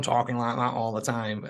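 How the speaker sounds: imitating a thick Manc accent; a put-on Manchester swagger in the voice. Mimicking the sales manager's talk, exaggerated Manc accent. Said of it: "the worst Manc accent".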